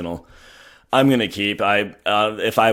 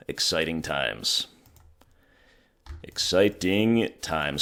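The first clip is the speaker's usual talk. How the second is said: hoarse voice; slower than usual. Real, not acted. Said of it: "Sorry, my voice is hoarse".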